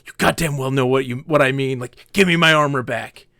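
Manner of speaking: quick, angry retort, imitated; mock furious demand. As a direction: play the enraged player insisting. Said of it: "Like, furious".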